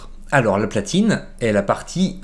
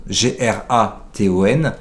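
slow spelling out. Shown as a demonstration.

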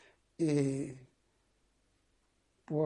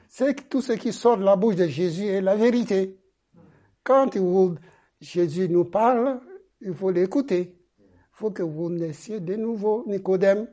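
louder preaching, pushing the key words; emphatic preaching; 4 semitones higher, 6 dB louder than usual. Real, not acted. Preacher pressing Jesus' words on the congregation, emphatic preaching. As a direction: drive the truth home to the listeners.

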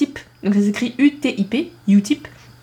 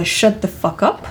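slow example; slower than usual. Shown as a demonstration. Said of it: "L'action que j'ai besoin".

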